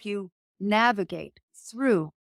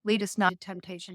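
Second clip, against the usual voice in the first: prayer recitation. Acted. Guest quoting the Lord's Prayer, solemn recital.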